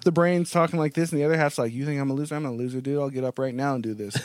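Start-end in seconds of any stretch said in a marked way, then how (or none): 1.7-4.1 put-on little kid voice. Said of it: "Why is that voice like a little kid".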